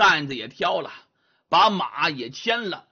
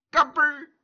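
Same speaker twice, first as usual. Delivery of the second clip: crisp, high vocal click; imitated lock click; 8 semitones higher than usual. A narrator's reading. Narrator imitates the small sound in everyone's ears, crisp click. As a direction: mimic a lock popping open. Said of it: "就听见细微的个动响".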